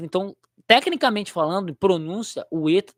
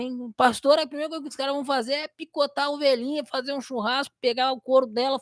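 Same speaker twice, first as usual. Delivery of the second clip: higher, hammed-up warning voice; mock alarm; 7 semitones higher than usual. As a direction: warn the little sheep in a silly panic. Mock warning to viewer Carneiro.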